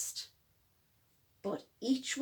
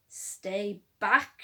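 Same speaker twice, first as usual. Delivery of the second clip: shouted; 4 semitones lower than usual. Acted. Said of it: "shouted Bruce".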